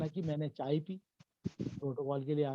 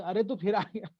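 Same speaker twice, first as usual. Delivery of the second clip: higher, louder mock scolding; hammed-up, raised-voice "you again" reaction; exaggerated reaction; 5 semitones higher, 6 dB louder than usual. Shown as a demonstration. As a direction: overplay the telling-off at the child. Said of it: "ये, ये करोगे".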